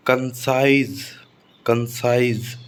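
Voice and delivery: कंसाइज with weak कं and long stressed साइज; stress on second syllable. Shown as a demonstration. Teacher giving an exception, कंसाइज stressed on साइज. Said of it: "stress साइज पर आया है".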